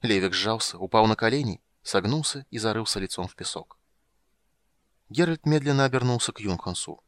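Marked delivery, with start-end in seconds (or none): none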